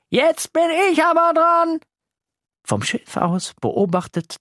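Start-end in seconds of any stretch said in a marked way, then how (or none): 0.1-1.8 high, loud playful shout; boy shouting. Acted. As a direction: call out to startle the sister. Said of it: "und ruft". (Jasin ruft laut)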